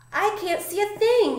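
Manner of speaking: high-pitched storybook yell; panicked yell. A narrator's reading. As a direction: cry out high, not at full volume. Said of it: "yelled Pip".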